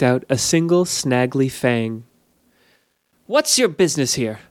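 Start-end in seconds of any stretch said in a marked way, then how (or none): 3.3-4.4 stern guard shout. A narrator's reading. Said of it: "shouted Negwyn".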